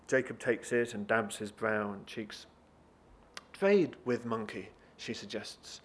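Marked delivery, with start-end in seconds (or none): 3.5-4.7 slow, halting suggestion; lightly voiced foreigner choosing words; foreign woman's broken English. Woman suggests a trade to Jacob, halting broken English.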